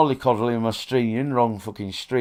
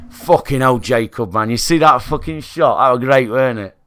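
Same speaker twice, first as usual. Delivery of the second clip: genuine reaction; 6 dB louder than usual. Retold or imitated. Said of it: "When I can just say".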